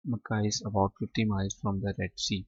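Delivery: very slow, each English word set apart for students; slow dictation reading. Shown as a demonstration. Teacher to students, slow careful reading aloud. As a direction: read Arabia is a land of charm and beauty slowly for the class. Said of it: "teacher reads the answer slowly".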